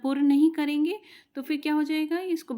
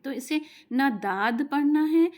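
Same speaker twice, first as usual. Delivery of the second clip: داد named as the wrong way, raised and louder; warning wrong reading; 3 semitones higher, 6 dB louder than usual. Shown as a demonstration. Teacher warning students against reading داد. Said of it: "یہ دونوں طریقے غلط ہیں".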